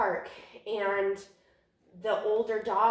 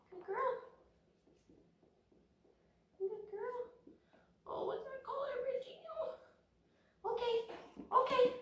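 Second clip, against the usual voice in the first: much higher, sing-song praise for a good dog; 5 dB quieter than usual. Real, not acted. Trainer praising her puppy Regina, high sing-song praise.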